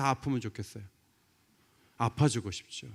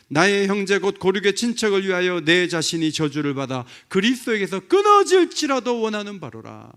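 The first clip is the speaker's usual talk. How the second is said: raised, forceful scripture recitation; 비장한 선언; 4 semitones higher, 8 dB louder than usual. Acted. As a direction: declaim it as Paul, swelling at the end. Declaims Paul's self-sacrificing words. (힘주어 선포하듯 낭독)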